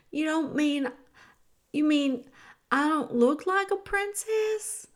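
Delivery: plead, hurt, rising on the question; crestfallen girl. Acted. Voices a tearful, hopeful girl.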